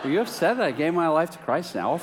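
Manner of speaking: lightly acted, rising incredulous question; amused incredulous questioning. New convert asking his longtime friend about being upset, amused incredulity. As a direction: tease out the suspicion, imitating a friend.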